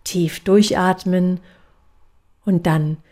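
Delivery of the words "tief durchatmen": slow breathing cue. Shown as a demonstration. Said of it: "Also ich mache es einmal vor".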